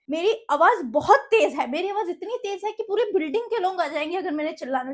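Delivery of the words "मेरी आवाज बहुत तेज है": louder and slower to show her voice's power. Shown as a demonstration. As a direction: lean on it loud and slow. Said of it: "मेरी आवाज भी बहुत तेज है". (आवाज़ तेज़ और धीमी करके दिखाना)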